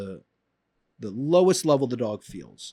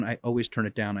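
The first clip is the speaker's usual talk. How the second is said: fading repeat; 5 semitones lower, 6 dB quieter than usual. Shown as a demonstration. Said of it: "I'm saying it louder".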